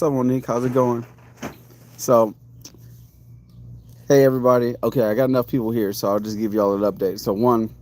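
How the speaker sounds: sore-mouth speech, words a bit thick; talking weird. Real, not acted. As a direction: talk around a painful mouth. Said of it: "I'm talking weird because I need, um, I need surgery".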